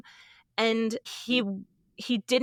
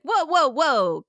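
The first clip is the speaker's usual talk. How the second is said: mock loud intervention; 4 semitones higher, 5 dB louder than usual. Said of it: "be like".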